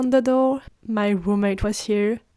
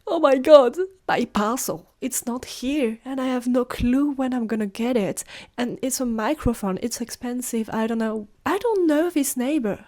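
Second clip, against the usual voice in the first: panicked rant; 3 semitones higher than usual. Retold or imitated. Panicked rant to her roommate.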